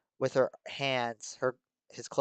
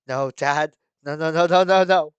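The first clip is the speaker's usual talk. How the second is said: rising, louder wailing no's; anguished cry; 3 semitones higher, 10 dB louder than usual. Acted. Natsuki wailing over her dead father, anguished. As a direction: wail over his body.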